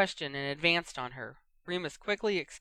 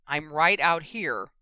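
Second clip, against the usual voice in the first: slow, louder fierce call through the door; 7 dB louder, slower than usual. Acted. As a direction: let the anger through as you call out. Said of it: "not bothering to keep the fierceness out of his voice".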